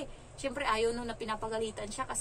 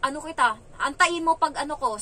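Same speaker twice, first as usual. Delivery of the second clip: loud, higher mimicked child's threat; imitated miffed child; 4 semitones higher, 7 dB louder than usual. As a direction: play a sulky kid vowing revenge. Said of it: "napikon talaga siya guys". (ginagayang pikon na bata)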